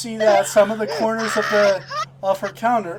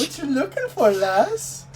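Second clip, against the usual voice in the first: put-on Scottish accent; 5 semitones higher than usual. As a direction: push the Scottish lass harder. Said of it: "for these accents".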